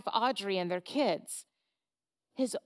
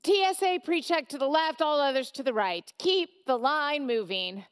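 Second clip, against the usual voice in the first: fed-up barked instructions; 3 semitones higher, 4 dB louder than usual. Acted. The T S A agent.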